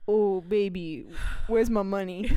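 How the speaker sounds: smooth pimp voice, lightly done; a lightly played pimp demanding money; smooth flashy pimp swagger. Shown as a demonstration. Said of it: "Do your best pimp impression".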